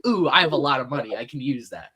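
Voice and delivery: a lightly voiced smug rich man, fast; mock rich guy. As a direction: rattle it off like a careless spoiled billionaire. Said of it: "It's just like".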